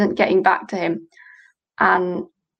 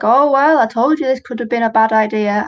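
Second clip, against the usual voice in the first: imitating dad; 3 semitones higher, 4 dB louder than usual. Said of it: "my dad was like".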